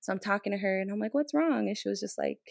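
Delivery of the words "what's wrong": high-pitched, caring question; retold big-sister voice; big-sister concern. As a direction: re-enact a mentor gently checking in. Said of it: "like, big sister role".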